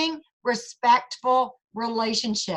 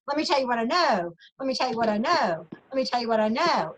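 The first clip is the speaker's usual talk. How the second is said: mock know-it-all; faster than usual. Mimics what directors avoided saying.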